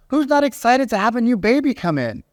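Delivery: high, disbelieving question; incredulous. Retold or imitated. Father of three to the caller, high incredulous question. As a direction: ask it as if it's unthinkable. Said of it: "he literally said".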